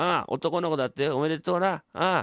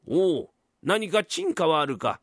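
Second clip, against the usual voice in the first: lord's slow reply; 3 semitones higher, slower than usual. Acted. Lord answers slowly.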